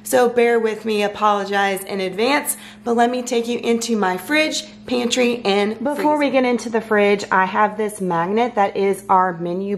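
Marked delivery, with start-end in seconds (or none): 0.0-5.8 hoarse, strained allergy voice; talking through a worn-out throat; voice giving out. Real, not acted. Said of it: "my throat is going out, my voice is going".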